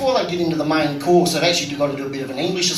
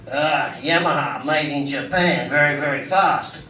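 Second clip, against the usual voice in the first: mock Japanese passenger; 3 semitones lower than usual. Taxi driver mimicking his Japanese passenger, a light low mock voice. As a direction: drop the voice and plod through each word.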